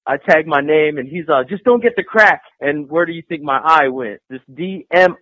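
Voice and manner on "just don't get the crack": tag. Retold or imitated. Quoting the fan's warning.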